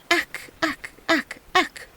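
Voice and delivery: high, odd frog croak. A narrator's reading. Frogs ignoring the peasant, high croaking. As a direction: keep croaking stubbornly. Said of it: "kept up with their".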